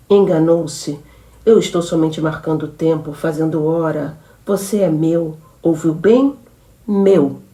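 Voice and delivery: possessive, threatening, building to the last word; menacing threat. Acted. Jealous woman threatens her lover. (ameaça possessiva e crescente)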